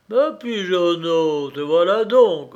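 loud, rumbling bear grumble; storybook bear, forceful and grumbly; growling bear. A narrator's reading. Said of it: "grommela un ours".

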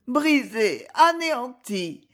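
plainte dolente, un peu haute et lente; a slow, doleful lament; voix dolente. A narrator's reading. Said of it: "dit-elle d'une voix dolente". (voix dolente et accablée)

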